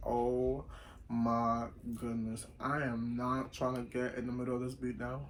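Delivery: low, slow muttered dismay; weary dread. Retold or imitated. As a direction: quietly refuse to get involved, word by word. Retold dread at banging door.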